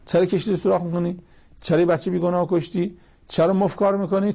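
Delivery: teacher voicing Moses' exasperated whys, not really yelling; mild mock shout. Moses protesting to Khidr, a mild mock shout. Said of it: "موسی داد زد".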